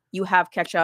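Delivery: flat robotic AI voice; monotone machine reply. Retold or imitated. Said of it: "when you did the robot voice about the ketchup".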